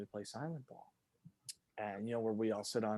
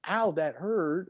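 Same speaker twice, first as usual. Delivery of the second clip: put-on little kid whine; 4 semitones higher, 4 dB louder, slower than usual. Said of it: "seven years old".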